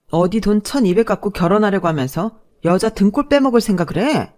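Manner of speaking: put-on indignant young woman answering back; defiant fiancée. Fiancée to boyfriend's insulting mother, angrily defiant. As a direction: fire back, offended and unafraid.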